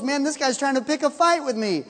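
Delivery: hammed-up royal panic; mock panicked king. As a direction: play the king freaking out, voice up and loud. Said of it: "the king reads it and freaks out".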